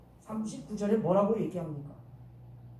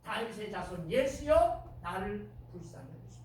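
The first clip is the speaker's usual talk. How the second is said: earnest plea. Retold or imitated. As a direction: plead for mercy from the heart. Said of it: "소경의 간절한 심령을 담아서".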